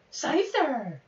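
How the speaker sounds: high called-out name; calling out. Real, not acted. Streamer calling his Scyther blade, high battle cry.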